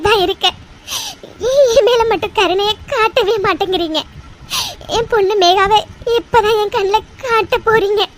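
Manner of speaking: pleading with God through tears, voice breaking; tearful prayer. Acted. Mother begs God at temple for her daughter, tearful. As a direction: choke up as you beg the god.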